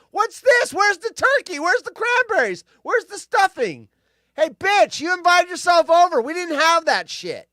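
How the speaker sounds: high, loud bratty complaining; mock angry tantrum. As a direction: throw a kid's fit over the missing turkey. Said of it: "Peppermint Patty shows him and goes".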